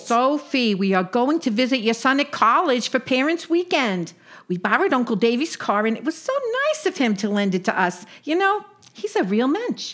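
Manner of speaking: put-on patient old Jewish aunt; lightly voiced Brooklyn yenta; yiddish accent. Sadie explains the trip.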